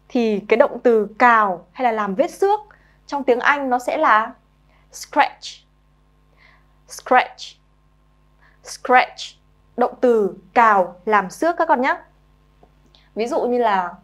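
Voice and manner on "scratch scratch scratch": scratch said clearly with a hissy s and ch; model pronunciation. Shown as a demonstration. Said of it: "nghe cô đọc rồi mình nhớ luôn cách phát âm".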